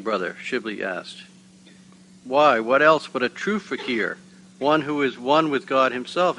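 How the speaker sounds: measured, expressive read-aloud; story narration. A narrator's reading. Reading a Sufi tale to the gathering, story narration. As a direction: read the tale out clearly to listeners.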